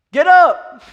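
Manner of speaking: high, explosive order; sudden full-volume command; shouted command. Acted. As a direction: holler it like a divine rebuke. Acts God's sharp command to Joshua.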